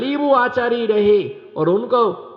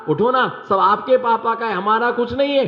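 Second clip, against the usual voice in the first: wife pleading, higher; 4 semitones higher than usual. Retold or imitated. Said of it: "पत्नी ने कहा".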